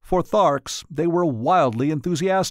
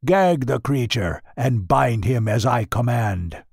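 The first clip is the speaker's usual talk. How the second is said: furious command. Acted. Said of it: "roared Tal Haggis".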